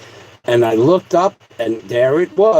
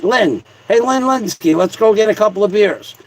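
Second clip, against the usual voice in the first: buddy calling out; 4 semitones higher than usual. Pretend. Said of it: "that just sounds like something you could say to Lynn Linsky".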